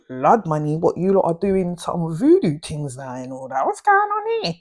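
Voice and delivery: mock disbelief. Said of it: "So I'm like".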